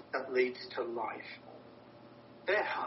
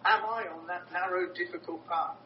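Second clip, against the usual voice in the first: searching self-question; 3 semitones higher than usual. Shown as a demonstration.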